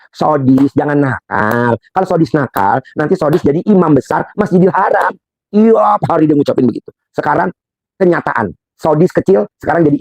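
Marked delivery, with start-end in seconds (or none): 0.1-5.1 slow, drawn-out mother's admonition; mother admonishing. Retold or imitated. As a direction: draw out each phrase like a mother correcting her child. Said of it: "ibunya Saudi ngomong begini".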